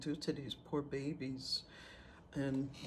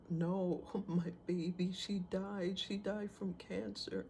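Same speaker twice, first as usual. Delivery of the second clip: grieving mother; 4 semitones higher, 4 dB quieter than usual. Retold or imitated. Mother tells of child's death.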